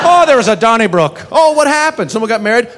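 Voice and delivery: high-pitched, lilting gossip; mock cheerful chat. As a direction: play it up as an innocent, high-voiced question and answer. Mock chat about a brawl.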